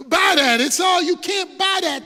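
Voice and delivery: loud emphatic rebuttal; preaching shout. Real, not acted. Preacher shouting back at Satan's lie, loud. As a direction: shout it down from the pulpit.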